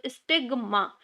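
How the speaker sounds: "स्टिग्मा" broken before its final मा; split for memory. Shown as a demonstration. Teacher linking mother to the term, "स्टिग्मा" split before मा. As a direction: set apart the मा at the end of "स्टिग्मा". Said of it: "माँ होती है".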